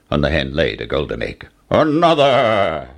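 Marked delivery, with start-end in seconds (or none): 1.7-2.9 giant's order. A narrator's reading. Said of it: "ordered the giant".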